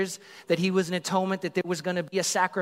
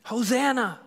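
high, raised hosanna cry; shouted hosanna; 7 semitones higher than usual. Retold or imitated. Preacher voicing the crowd hailing Jesus, shouting. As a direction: call it out to the king. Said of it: "they shouted".

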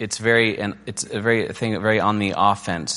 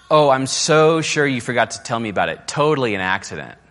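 dripping mock disbelief, louder on oh; sarcastic; 2 semitones higher, 5 dB louder than usual. Spouse mocking partner's excuse, sarcastic. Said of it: "statements like".

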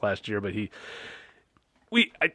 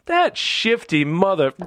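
slow, higher-pitched retold grumbling; mock pissed off; 7 semitones higher, slower than usual. Retelling caller hanging up the voicemail, mock annoyance. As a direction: imitate an annoyed caller cursing slowly. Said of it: "they get pissed off".

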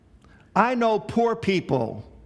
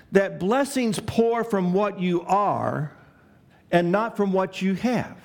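slow emphatic principle. Shown as a demonstration. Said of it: "key principle stated slowly".

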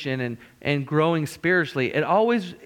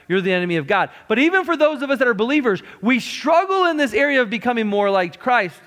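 preaching at full force; 6 semitones higher than usual. Acted. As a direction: drive it home like a revival preacher.

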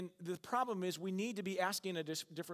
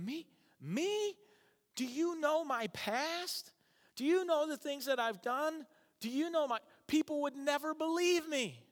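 reluctant believer; 11 semitones higher, 3 dB louder than usual. Retold or imitated. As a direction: beg God to pick someone else. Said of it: "And you're going".

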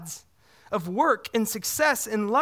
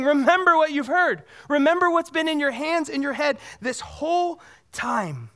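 urgent plea; 4 semitones higher than usual. Retold or imitated. Preacher voicing Jesus' urging.

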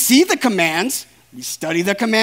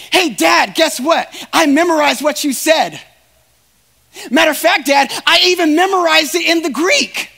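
daughter's proud report, a touch of shout; eager daughter; 5 semitones higher, 4 dB louder than usual. Acted. Preacher voicing a daughter bragging to her dad, eager and loud. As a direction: bubbly kid showing off to Dad.

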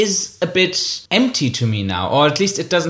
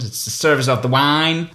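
mock southern accent. Shown as a demonstration. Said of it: "if you say it with a sort of southern accent".

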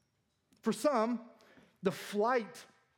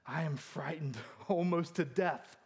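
slow, lower, hammed-up dread; mock terror; 4 semitones lower, 3 dB quieter than usual. Preacher voicing the scared kid's answer, mock terror. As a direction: draw out the fear in pretend solemnity.

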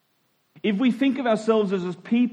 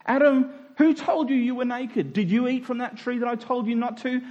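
God calling Adam; 5 semitones higher than usual. Acted. God comes in.

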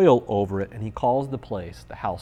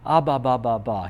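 imitated baby babble. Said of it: "He looks at me and says".

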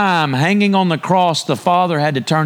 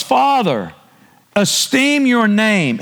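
slow solemn quote; 6 semitones higher, slower than usual. Acted. Preacher quoting Jesus' prayer, slowly.

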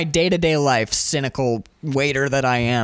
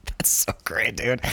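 whispered praise, soft; 2 semitones lower, 5 dB quieter, slower than usual. Real, not acted. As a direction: breathe it out after the laugh. Quiet aside after laughing.

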